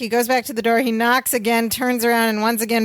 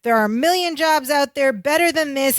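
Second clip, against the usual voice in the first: higher-pitched mock tirade; emboldened lecture; 4 semitones higher than usual. Larry lecturing Twink Cassetti, imitated indignation. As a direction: imitate a worker finally telling off the boss. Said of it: "gets this courage to lecture".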